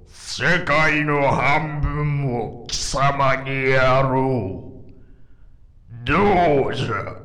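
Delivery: the boss offering half the world, effect-heavy; added voice effect; demon king with voice effect. Acted. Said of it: "後半だけちょっとエフェクトかけさせていただきました".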